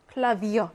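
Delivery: 클라비어 with the stress on its last part, 비어; stress on final syllable. Shown as a demonstration. Teacher showing where Klavier is stressed, final stress on 비어. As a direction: land the accent of 클라비어 on 비어. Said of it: "뒤에 강세가 있습니다".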